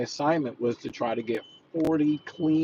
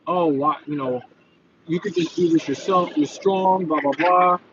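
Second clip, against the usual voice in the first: mildly whiny mimicry, slightly raised pitch; put-on grumbling, a touch higher; mock whining complaint; 3 semitones higher, 3 dB louder than usual. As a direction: imitate a reluctant gym buddy complaining. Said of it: "cry and whine and complain like".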